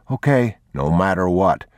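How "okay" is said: put-on high child's voice; small, high boyish agreement; young boy. A narrator's reading. Boy agreeing with his father, high childlike voice.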